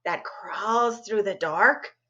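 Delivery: lively read-aloud narration with spooky dips; storytelling voice. A narrator's reading. Librarian reading a scary story to students, animated storytelling. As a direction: tell it like a campfire tale to kids.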